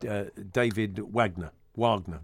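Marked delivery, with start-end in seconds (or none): 1.1-1.5 "Wagner" with W and short flat A, as WAG-ner; anglicised pronunciation. Shown as a demonstration. Tries three versions of surname. 1.7-2.2 "Wagner" with W and long AH, as WAHG-ner; half-anglicised pronunciation. Shown as a demonstration. Tries three versions of surname.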